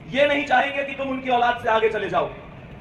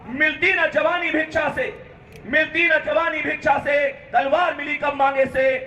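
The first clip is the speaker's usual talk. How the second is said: heroic poem recitation. Acted. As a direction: recite rousing war poetry to students. (वीर रस का कविता पाठ)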